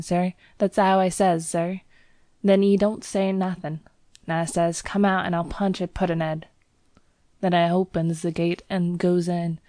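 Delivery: a lad boasting then disgusted, Cockney; Cockney bell boy. Acted. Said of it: "Thomas's Cockney dialect".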